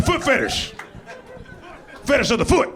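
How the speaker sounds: high-pitched mimicry of a heckler; mocking imitation. Comedian mocking who said it three times, high mimicry. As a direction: mimic an over-eager shouter in a high voice. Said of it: "You're like".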